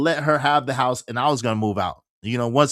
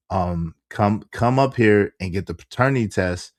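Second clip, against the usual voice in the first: lightly voiced impression, pitched lower; imitating Shorty; 5 semitones lower than usual. Shorty asking him for a paternity test, low-pitched imitation. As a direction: drop down low to mimic how she talks. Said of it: "this how she talks".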